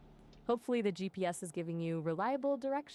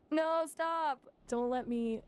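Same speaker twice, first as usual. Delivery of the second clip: exclaiming; 8 semitones higher, 4 dB louder, slower than usual. Acted. AI protests the innuendo joke.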